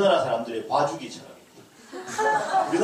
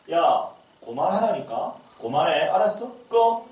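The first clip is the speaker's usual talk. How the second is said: stern mock scolding, rising at the end; mother scolding; 2 semitones higher, 3 dB louder, slower than usual. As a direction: scold the kid to turn it off. Mother scolding child over games. (게임하는 아이를 꾸짖는 엄마의 짜증 섞인 말투)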